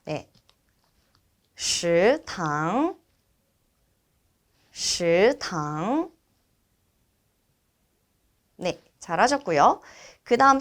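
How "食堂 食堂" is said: two drawn-out rising tones on 食堂; repeat-after-me model. Shown as a demonstration. Teacher leading students to read 食堂, careful model. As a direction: say 食堂 evenly, each syllable rising. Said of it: "따라서 읽어보도록 하겠습니다".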